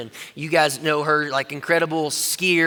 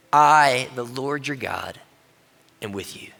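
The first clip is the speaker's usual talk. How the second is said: hushed voice of God; 5 semitones lower, slower than usual. Acted. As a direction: lay it down gently as God's promise. God's words to Gideon.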